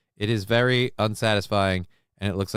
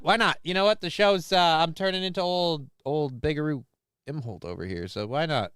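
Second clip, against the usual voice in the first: sarcastic; 6 semitones higher than usual. Acted. Sarcastic reply to chatter Bobby.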